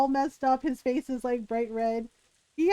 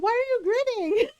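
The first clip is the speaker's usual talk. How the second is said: incredulous question; 8 semitones higher, much faster than usual. Retold or imitated. Narrator questions grinning friend.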